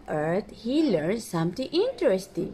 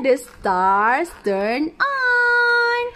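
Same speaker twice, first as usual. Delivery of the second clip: slow wonder; 5 semitones higher, 4 dB louder, much slower than usual. Acted. Reveal, slowed.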